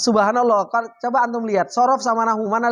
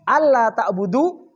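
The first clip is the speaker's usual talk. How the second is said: slow quoted verse; slower than usual. Shown as a demonstration.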